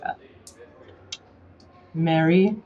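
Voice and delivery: a lightly put-on British accent, polite. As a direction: greet the nurse in a genteel British accent. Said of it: "you have just the most lovely accent".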